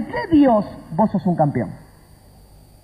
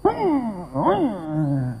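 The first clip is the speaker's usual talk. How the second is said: wordless put-on indignation; mock offended huff; 4 semitones lower, 8 dB quieter than usual. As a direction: imitate a sulker, humming downward. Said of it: "se fue enojado".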